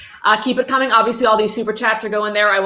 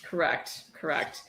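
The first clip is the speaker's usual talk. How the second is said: whispered agreement; 4 semitones lower, 11 dB quieter, slower than usual. Real, not acted. Agreeing after the Myanmar cheer.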